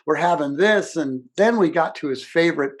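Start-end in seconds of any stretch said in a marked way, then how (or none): 0.0-1.0 yelling out. Retold or imitated. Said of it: "we would all yell out".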